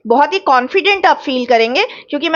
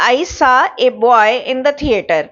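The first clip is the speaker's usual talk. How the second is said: very slow, word by word example sentence; slow dictation; much slower than usual. Shown as a demonstration. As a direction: spell out each word slowly for students. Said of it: "a boy यानी कि कोई भी एक लड़का".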